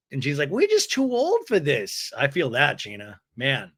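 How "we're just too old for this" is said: high-pitched, exaggerated protest; mock whiny complaint. Recapper imitates Gina feeling too old, mock whiny complaint. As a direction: complain in a raised, put-on voice.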